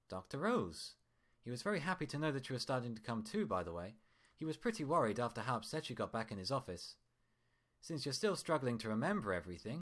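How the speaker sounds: lightly voiced doctor, smooth and friendly; a hint of a cheerful hospital doctor; doctor Dreamer. Doctor cheerfully relaying news.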